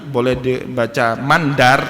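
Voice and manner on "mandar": mandar read man-dar with a vowels, a bit slow; mandar, a second vowel reading of the same letters; vowel reading demo. Shown as a demonstration. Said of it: "itu boleh dibaca dengan beragam".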